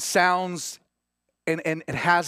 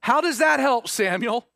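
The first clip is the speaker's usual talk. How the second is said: mock doubting Israelites; 5 semitones higher, 4 dB louder than usual.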